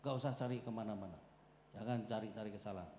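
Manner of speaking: calm low "cari-cari"; quiet restatement. Acted. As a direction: say "Jangan cari-cari kesalahan" gently to yourself. Quiet repeat of the point.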